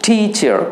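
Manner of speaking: "টিচার" with the ট puffed out like ঠ; aspirated t. Shown as a demonstration. Teacher models the word for the class, aspirated t in "টিচার". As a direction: open "টিচার" on a strong burst of air. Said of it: "টকে ঠ করে বলছো".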